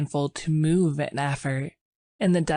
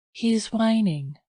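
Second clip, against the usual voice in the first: nervous; 6 semitones higher than usual. Acted. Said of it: "she continued nervously".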